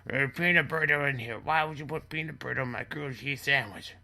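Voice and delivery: high-pitched, distressed complaint; mock freak-out. Hurt son blames father for the sandwich, mock freak-out. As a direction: wail the accusation in mock agony. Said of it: "he just started freaking out".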